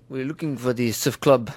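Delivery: mock French accent, lost tourist asking around. French student asking for the surf club in a mock French accent. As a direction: put on a hammed-up French accent. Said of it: "I think that accent's getting better".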